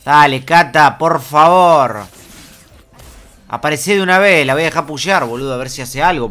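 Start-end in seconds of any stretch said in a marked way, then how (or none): 0.0-4.5 loud, drawn-out begging at the screen; loud impatient pleading. Real, not acted. Player loudly begging the enemy Katarina to show up, impatient. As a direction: urge her out, nearly yelling.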